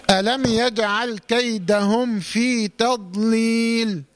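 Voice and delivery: slow recitation with thin ل in تضليل; measured model recitation, long final vowel in تضليل; light laam. Shown as a demonstration. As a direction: keep the ل of تضليل light after the heavy ض. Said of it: "مرقق".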